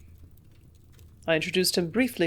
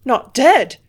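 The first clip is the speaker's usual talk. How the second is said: overjoyed, much louder and higher; joyful cry; 6 semitones higher, 12 dB louder than usual. A narrator's reading. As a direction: burst out with relief and joy. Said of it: "I cried joyfully".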